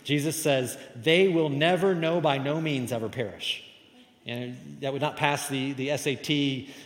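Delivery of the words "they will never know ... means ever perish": never know rung out high and loud; preacher's emphatic quote; emphatic double negative. Shown as a demonstration. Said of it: "he's trying to be very emphatic".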